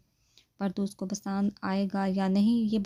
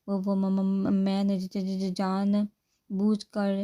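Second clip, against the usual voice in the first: stammering nervously; slower than usual. Acted. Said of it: "گھبرا کر کہا".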